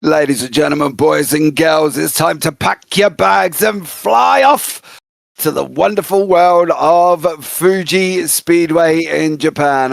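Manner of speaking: slow, grand show opener; announcer intro. Acted. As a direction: roll out the welcome like a host. Broadcast opening welcome.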